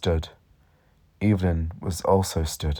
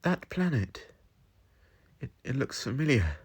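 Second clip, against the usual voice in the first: put-on a higher young woman's voice; light higher companion voice; Evelyn, higher voice; 7 semitones higher, 4 dB quieter than usual. A narrator's reading. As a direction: lift the voice for Evelyn. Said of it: "Evelyn said".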